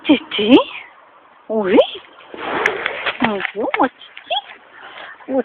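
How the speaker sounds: sing-song coaxing voice for the cat. Real, not acted. Woman cooing to her cat Titi, tender baby talk. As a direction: coo at the little cat.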